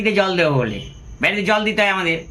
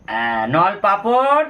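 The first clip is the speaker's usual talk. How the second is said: slow, relishing naming of the snack; savouring; much slower than usual. Real, not acted. Showing viewers his evening snacks, relishing. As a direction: drawl it out like it's a treat.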